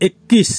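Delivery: একুশ said as Hindi ikkis with held k; Hindi pronunciation. Shown as a demonstration. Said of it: "হিন্দিতে হবে একুশ".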